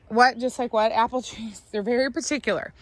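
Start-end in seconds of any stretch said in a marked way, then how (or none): 1.7-2.7 hoarse, scratchy voice. Real, not acted. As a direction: talk through a scratchy throat. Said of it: "Sorry about my scratchy voice".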